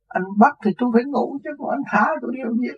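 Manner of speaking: high, quick mock-innocent comeback; cheeky retort. Arrested man answers police about sleeping, cheeky retort. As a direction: toss the logic back at the officer.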